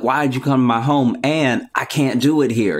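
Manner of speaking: lightly voiced exasperated doctor; annoyed mob doctor. Retelling the mob doctor's stock speech, mildly exasperated. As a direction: complain like a put-upon back-room doctor. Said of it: "they're like".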